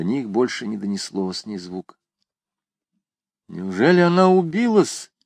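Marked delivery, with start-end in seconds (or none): 3.5-5.1 higher, alarmed question; alarmed exclaim. A narrator's reading. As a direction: gasp it out in alarm. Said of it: "воскликнула Жервеза".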